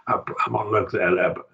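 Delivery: whispered aside to himself; whispering. Real, not acted. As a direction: mutter it under your breath while looking. Aside while checking the manuscript.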